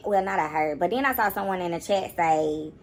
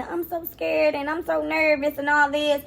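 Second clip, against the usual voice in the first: mock timid; 5 semitones higher than usual. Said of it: "she was all timid".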